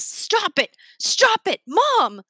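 high, frightened pleading; scared outcry. A narrator's reading. Scared son begging his mom to stop, frightened outcry. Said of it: "scared. He says".

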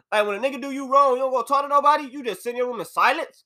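heated rant that gets away from him; a little aggressive. Real, not acted. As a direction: push the questions hard and quick, half-joking. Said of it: "My bad, I got a little aggressive".

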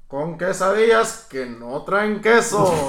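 slow ring announcer, drawn-out words; lucha libre announcer. Pretend. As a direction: draw out the intro like a wrestling MC. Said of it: "como el perro Bermúdez".

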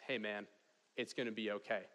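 quiet, understated reassurance in a retold quote; gentle reassurance. Older mentor hugging a sobbing young driver, gently reassuring.

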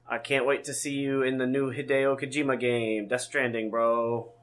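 lightly voiced cyborg, barely changed; a hint of robotic cyborg delivery. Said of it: "Why are you talking like a cyborg".

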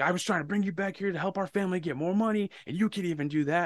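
high-pitched retold reproach; imitating aggrieved father. Retold father's angry guilt trip.

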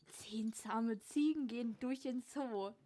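Zehn zahme Ziegen with a lisped s, slow; lisping. Shown as a demonstration. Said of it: "gerne mehr Lispeln hören".

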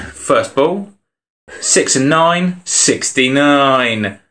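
slow, drawn-out bingo call; bingo caller. Pretend. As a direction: call the numbers like bingo night. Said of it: "I'm gonna do it like a bingo caller".

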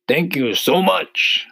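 high, slow, loud thanks; grateful centipede. A narrator's reading. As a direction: gush thanks as a storybook centipede. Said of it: "the centipede said".

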